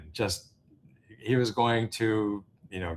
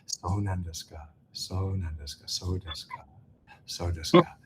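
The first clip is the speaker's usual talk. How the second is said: polite Japanese aizuchi; 2 semitones lower than usual. Shown as a demonstration. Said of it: "the Aizuchi".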